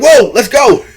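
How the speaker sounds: loud, high whoop with a laugh; hammed-up rallying cry; excited. Retelling a chaser setting off after a tornado, excited. Retold storm chaser spurs them on.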